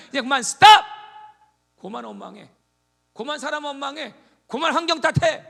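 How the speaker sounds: high, loud stop order; shouted command. Retold or imitated. God shouting at complainers to stop grumbling.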